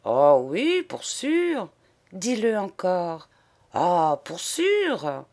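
lightly voiced lad answering; a hint of the drawling young boy; boy's voice. The boy reassures Eugénie, lightly voiced lad.

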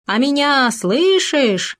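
high, slow, fierce ghostly howl. A narrator's reading. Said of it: "свирепо подхватил Хома".

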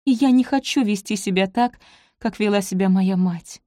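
usual speaking voice

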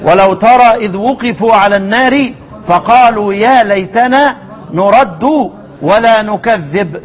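Quranic recitation. Shown as a demonstration. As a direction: stretch each word like a reciter. Teacher recites the verse slowly.

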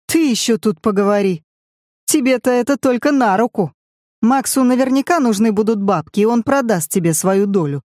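ordinary talk, nothing marked

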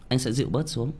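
calming down. Real, not acted. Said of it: "Anh dịu bớt rồi".

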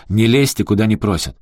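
громкий сердитый окрик, выше; гони чужака прочь; вспылив. Acted. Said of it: "взвился Эрик". (Эрик гневно гонит управляющего)

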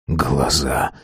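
very quiet. A narrator's reading. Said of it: "сказал он совсем тихо".

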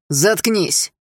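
shouted. Acted. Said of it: "выкрикнул Руслан".

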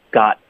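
"got" with the final t held back, not released; slow teacher demo of "got" with silent t; unreleased t. Shown as a demonstration. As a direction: stop the tongue on "got" without a burst. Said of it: "t的音呢省略".

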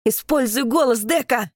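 Keita's pressing battle order; urgent shout. Acted. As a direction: drive her to act now. Keita urges her in battle.

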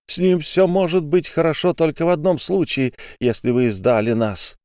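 high, angry outburst; furious at being betrayed; furious accusation. Acted. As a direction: hurl the accusation at him. Olga storms at narrator.

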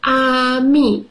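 ami said the French way, ah-MEE, stress on the end; French pronunciation. Shown as a demonstration. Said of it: "You say it like this".

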